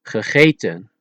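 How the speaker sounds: Gegeten with uh, long ay, uh; Dutch E sounds. Shown as a demonstration. Teacher giving an example, Gegeten with uh, ay, uh. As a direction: say Gegeten in Dutch, only the middle E as ay. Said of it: "listen closely at the pronunciation".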